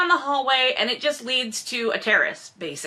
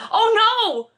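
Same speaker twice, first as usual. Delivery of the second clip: mock alarm; 11 semitones higher, 5 dB louder than usual. Mock gasp at own blonde wig.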